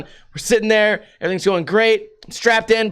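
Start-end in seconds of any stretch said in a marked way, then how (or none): none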